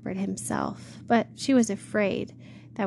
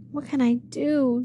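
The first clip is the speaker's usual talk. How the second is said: Much Afraid pleading in a lightly raised, upset voice; a frightened girl begging for help, a little higher; cried; 4 semitones higher than usual. Acted. Frightened girl asks the shepherd for help, upset cry. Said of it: "she cried".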